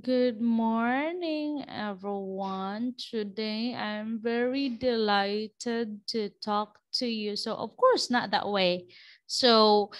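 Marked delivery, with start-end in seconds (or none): 0.0-7.3 slow, quiet, lifeless greeting; thin voice trailing off; thin-voiced dull speaker. Shown as a demonstration. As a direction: sound like a weak speaker with no energy. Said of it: "someone who has a very thin voice".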